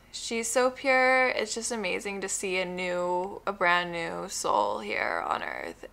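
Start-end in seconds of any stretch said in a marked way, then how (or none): 0.1-1.3 tender. Real, not acted. Tender slow about baby.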